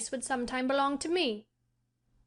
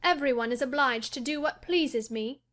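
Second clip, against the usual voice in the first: indifferent; 6 semitones higher than usual. A narrator's reading. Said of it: "he said indifferently".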